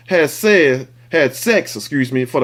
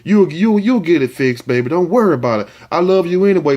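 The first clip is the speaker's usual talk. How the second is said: mock tender boyfriend. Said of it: "I bet he was like".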